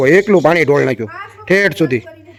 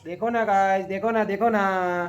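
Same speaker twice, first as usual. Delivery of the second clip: imitating son; 3 semitones higher, 7 dB quieter, much slower than usual. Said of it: "ઓલું બોલતો".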